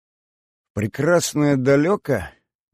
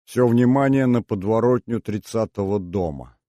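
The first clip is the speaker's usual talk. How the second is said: exaggerated tone. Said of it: "тем же нарочитым тоном".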